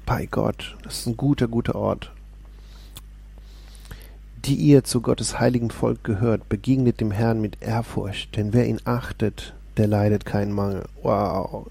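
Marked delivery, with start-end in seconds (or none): 4.5-10.9 scripture reading. Acted. Reads Psalm aloud.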